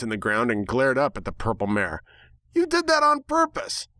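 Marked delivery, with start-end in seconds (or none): 2.5-3.9 high, indignant protest in a put-on voice; indignant outburst. A narrator's reading. The narrator voicing the protagonist's indignant outburst. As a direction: squeak it out, offended.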